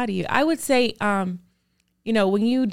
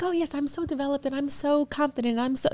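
mock self-praise; 6 semitones higher, 6 dB quieter than usual. Mocking pretend-confident people.

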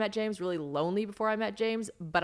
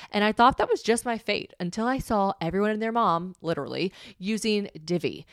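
upbeat, louder sponsor read over music; 4 dB louder than usual. Acted. Host reads the sponsor spot to her podcast audience, upbeat ad voice. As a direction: sell the hair product with bubbly enthusiasm.

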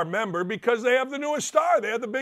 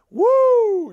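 excited woo; 13 semitones higher, 9 dB louder than usual. Real, not acted. Exclaiming about trouble.

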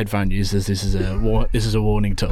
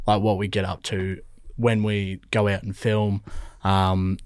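newsreader voice; 2 semitones lower than usual. Real, not acted. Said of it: "You sound like a bloody newsreader".

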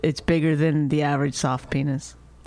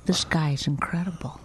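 breathy, hushed fawning over him; swooning girl voice; 6 dB quieter than usual. Pretend. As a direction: gush like a smitten fan.

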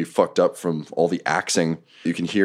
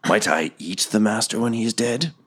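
monster voice; 3 semitones higher than usual. Acted. GM voices Nothic.

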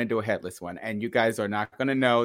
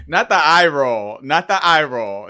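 loud playful scolding, a bit higher; teasing call-out; 4 semitones higher, 9 dB louder than usual. Real, not acted. To her co-host about the eye roll, loud teasing call-out.

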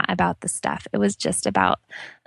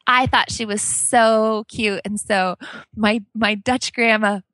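normal talking voice

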